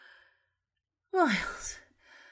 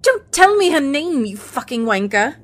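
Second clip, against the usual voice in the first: raised voice cutting the lover off; angry outburst; 4 dB louder than usual. Acted. Woman stopping lover naming daughter, angry.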